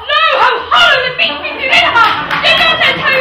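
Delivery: high, loud, half laughing cry; mock alarm. Maria pretends fright at the fiend inside Malvolio. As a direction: play up the horror with a giggle.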